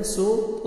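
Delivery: "सो तो" with a thick emphatic t; heavy tau. Shown as a demonstration. Teacher showing heavy tau in "सो तो". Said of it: "तो को मोटा करके".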